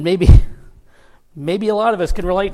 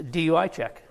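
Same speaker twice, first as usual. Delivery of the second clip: laughing. Real, not acted. Laughing at trooper's reason.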